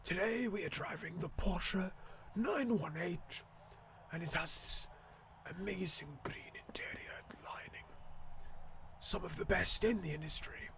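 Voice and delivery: hushed, measured car-show presenter voice. Acted. Gamer mock-presenting a Porsche to viewers, hushed TV presenter. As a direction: present the car very softly, with pauses. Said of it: "It's like a fucking T V presenter voice".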